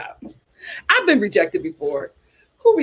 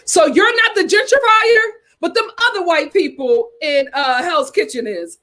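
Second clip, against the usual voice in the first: sarcastic; 6 semitones higher than usual. Real, not acted. Sarcastic mock of her logic.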